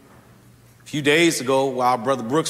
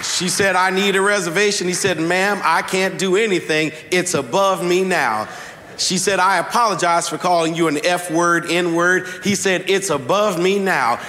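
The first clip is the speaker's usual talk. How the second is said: rising sermon delivery; 2 semitones higher than usual. Acted. Preacher to congregation, building to the sermon's point. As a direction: lift the story toward the point.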